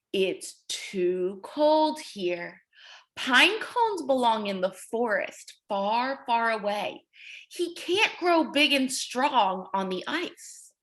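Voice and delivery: a hint of an old grandpa, low and slow; lightly voiced grandpa. Grandpa explains to penguin, a lightly voiced slow old man. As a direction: speak gently and slowly like a wise grandpa. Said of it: "Grandpa said".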